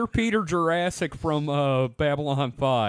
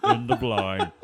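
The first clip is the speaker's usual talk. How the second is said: MCP robot voice; 7 semitones lower than usual. Retold or imitated. Echoing the MCP catchphrase.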